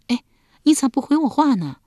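a wife nudging her husband for an answer; wife asks why he won't reply; pressing wife. A narrator's reading.

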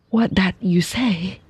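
a frail mother's anxious question; quavering. Acted. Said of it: "quavered Lei Chu".

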